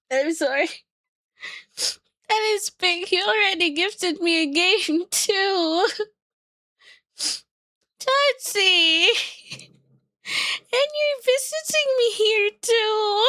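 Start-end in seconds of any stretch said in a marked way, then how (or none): 2.3-13.2 high, tearful and moved; choked up with joy. Real, not acted. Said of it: "I shouldn't cry".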